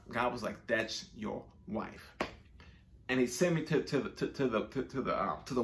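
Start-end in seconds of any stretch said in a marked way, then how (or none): 0.7-2.1 slow, breathy whisper, each word drawn out; God's whisper. Retold or imitated. God insisting on his wife, in a slow whisper. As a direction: whisper it slowly like a voice from above. God repeats answer in prayer.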